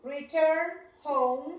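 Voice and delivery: drawn-out teacher model; slow model. Shown as a demonstration. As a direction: say it slowly, stress return. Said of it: "Vamos a poner return". (lento, marcando return)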